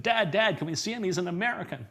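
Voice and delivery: put-on high, pleading child voice; a young boy tugging at his dad; eager little boy. Boy pleading with his dad to see the show, high and eager.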